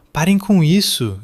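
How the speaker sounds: high, loud shout to stop a fight. A narrator's reading. Son shouting at father and brother fighting. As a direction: yell at them to stop.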